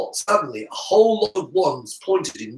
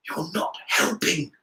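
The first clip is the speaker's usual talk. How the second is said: softer, understated remark; mild tone; 2 semitones higher, 5 dB quieter than usual. A narrator's reading. Harry hinting Draco should stop, mild tone. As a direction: say it mildly, softly. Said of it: "Harry said in a mild tone".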